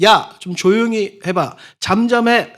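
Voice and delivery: impatient hush. Retold or imitated. Crowd hushing Bartimaeus.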